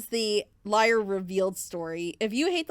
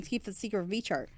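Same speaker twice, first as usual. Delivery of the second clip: softer, dropping the line as she walks in; cut-off quieter take; 4 semitones lower, 7 dB quieter, faster than usual. Shown as a demonstration. Telling a friend to keep a gift secret, cut off softly. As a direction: caught mid-sentence, hushing the words. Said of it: "she came on right as I was saying".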